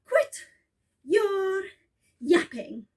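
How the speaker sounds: slow, spaced out put-down; gruff eagle. Acted. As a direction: bite off each word. Eagle snaps at Horton.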